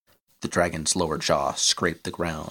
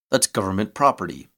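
louder indignant protest; 3 semitones higher, 5 dB louder than usual. Acted. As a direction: object sharply, a bit louder. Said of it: "Bull protested".

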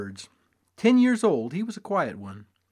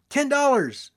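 called out bet; 12 semitones higher, 5 dB louder, slower than usual. A narrator's reading. Cowpoke calls bet.

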